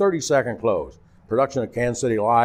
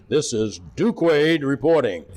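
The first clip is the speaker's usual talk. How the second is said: announcer sign-off; 3 semitones higher, slower than usual. Retold or imitated. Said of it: "he'd always end".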